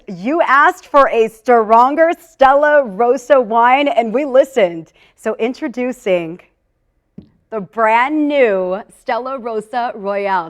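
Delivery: slow, punchy announcer delivery; special announcement. Pretend. Host unveiling a new wine to viewers, announcer style. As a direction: stretch and hit the key words like a launch. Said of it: "now time for a special announcement".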